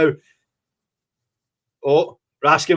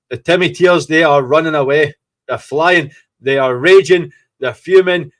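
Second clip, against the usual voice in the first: louder, gleeful jeering at the rival fans; gloating excitement; 6 dB louder than usual. Real, not acted. Football fan gloating to his viewers, loud and gleeful. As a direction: crow over the fleeing fans.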